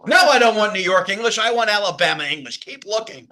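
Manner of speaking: put-on impatient demand; mock demanding customer. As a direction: reject it like a fussy caller, for laughs. Acted demand to call-center manager.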